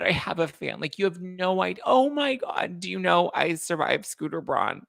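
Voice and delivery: put-on high, slow gushing girlish voice; gush, overdone surprise; mock starstruck singer. Vlogger mocks a singer gushing over a fan, high and slow. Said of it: "she's like".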